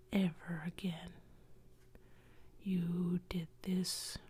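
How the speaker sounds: lightly voiced ghost delivering a curse; cursing ghost.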